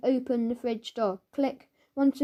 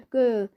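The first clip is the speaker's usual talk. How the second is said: growl; 4 dB louder than usual. Acted. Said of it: "growled Fing".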